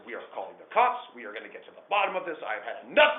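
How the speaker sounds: loud, rising to a shout; furious son fed up and shouting; angry outburst. Retold or imitated. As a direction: lose it and yell at the family. Furious son threatens police.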